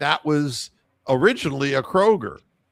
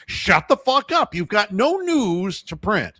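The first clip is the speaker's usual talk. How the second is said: angry; 5 semitones higher than usual. Real, not acted. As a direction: snap it at them, fed up. Ranting at the media.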